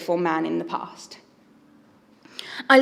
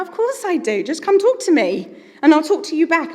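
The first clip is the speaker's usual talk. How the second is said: emphatic reassurance; 7 semitones higher, 6 dB louder than usual. Acted. God answering worried believer, acted.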